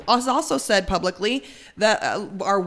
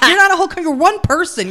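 heated rant; 8 semitones higher, 5 dB louder than usual. Real, not acted. Ranting at a Twitter troll.

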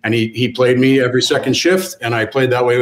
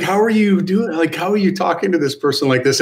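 higher-pitched incredulous questioning; retold disbelief; 6 semitones higher than usual. Player appalled at coach's name for teammate, incredulous. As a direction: replay your disbelief at what you heard. Retelling shock at coach's insult.

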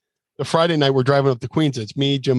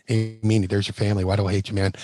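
Tracy Smothers; 4 semitones lower, 3 dB quieter, faster than usual. Retold or imitated. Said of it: "Cal's go".

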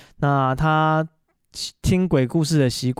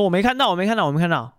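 imitating a little kid's pitched-up whine; whiny little boy; 5 semitones higher, faster than usual. Little brother whining to dad that he missed it, mock kid whine. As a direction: plead like an upset child who missed out.

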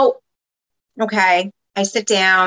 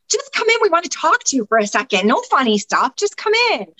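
high, sing-song coaxing; coaxing friend; 7 semitones higher than usual. Retold or imitated. Friend coaxing nervous birthday girl inside, high and sweet. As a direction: coax her sweetly into the room.

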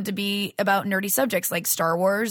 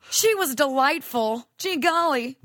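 goofy self-praise; 5 semitones higher, slower than usual. Pretend. Goofy old-timey praise.

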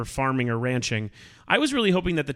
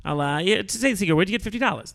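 Groucho Marx impression; 2 semitones higher, faster than usual. Shown as a demonstration. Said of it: "He talked like that".

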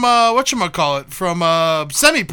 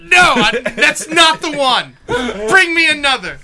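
slow, haughty refusal of the drink; fussy customer; 4 semitones higher, slower than usual. Pretend. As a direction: lightly play a picky customer. Acting a fussy bar customer.

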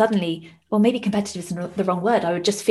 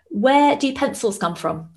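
put-on higher, slow, a child springing a riddle; son's joke voice; 6 semitones higher, slower than usual. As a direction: lightly play the little boy asking the riddle. Son telling his joke.

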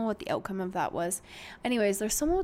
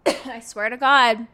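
coughing through the words; slow, with a chesty cough; 6 dB louder, slower than usual. Real, not acted. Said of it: "I'm sorry, I'm coughing".

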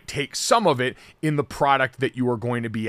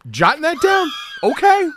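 mock offended; 12 semitones higher, 6 dB louder than usual.

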